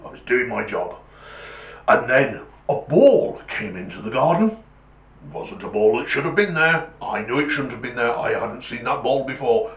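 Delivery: lightly voiced military Alsatian; a hint of soldierly guard dog; dutiful guard dog. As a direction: report to a superior officer, insisting on duty. Alsatian reports in the joke.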